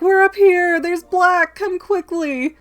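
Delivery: high, loud shout upward; calling for help. Retold or imitated. Hermione shouting to the teacher downstairs, high and loud. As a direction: call out for rescue.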